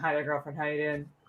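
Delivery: flat, low, affectless deadpan monotone. Podcaster shows how they'll greet listeners next episode: mock flat, affectless delivery. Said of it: "That's how I'm gonna greet all of you".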